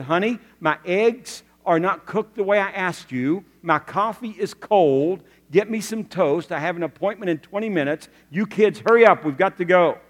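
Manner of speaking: mildly acted cranky father complaining; fussing. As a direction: fuss at the family, building to a loud hurry-up. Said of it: "did you start fussing at Mommy?".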